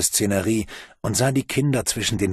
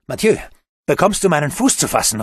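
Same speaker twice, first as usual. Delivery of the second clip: louder urgent call; 5 semitones higher, 4 dB louder, faster than usual. Acted. Bruno calls down to the boy, loud. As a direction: call down into the pit. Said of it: "rief er".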